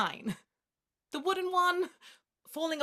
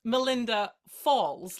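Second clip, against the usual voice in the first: slow and louder, letting Melinda Falls land like a doom; ominous slow emphasis; 5 dB louder, slower than usual. Acted. Friend hearing the grim pun in the name, slow and ominous. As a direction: lean into Melinda Falls as a dark omen. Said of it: "I hear it".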